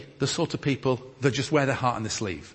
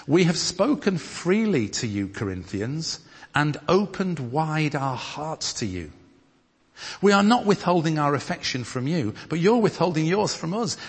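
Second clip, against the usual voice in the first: scripture reading; 3 semitones higher than usual. Acted. Reads scripture aloud to congregation.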